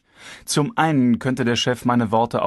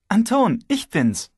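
Svetlana's voice pitched up, a touch of worry; alarmed, worried; 11 semitones higher, slower than usual. A narrator's reading. Wife phoning Anton, worried and alarmed. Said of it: "Stimme klang alarmierend, besorgt".

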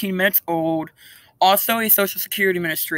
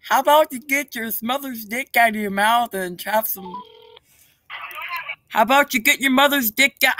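taunting insult; 3 semitones higher than usual. Real, not acted. Insulting the scammer.

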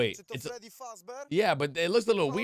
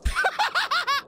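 high giggle. Real, not acted. Reacting to game.

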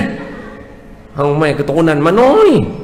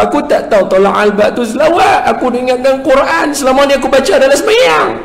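higher, quick sheepish grandpa; grandpa confessing; 11 semitones higher, faster than usual. Retold or imitated. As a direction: admit it fast, embarrassed. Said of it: "Tok Wan dia kata".

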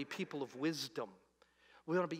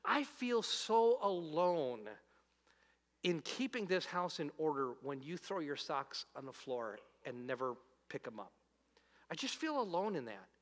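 gentle honest feeling; 3 dB quieter than usual. Shown as a demonstration. Telling a spouse how alone you feel, soft and sincere. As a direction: open up instead of blaming. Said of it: "You have to learn how to say it like this".

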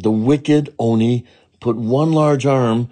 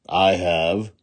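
stern. Acted. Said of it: "said a very stern Jizo".

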